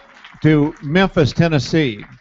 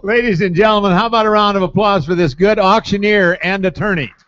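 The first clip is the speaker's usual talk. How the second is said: announcer voice; 6 semitones higher, 4 dB louder than usual. Real, not acted. Host addresses the crowd.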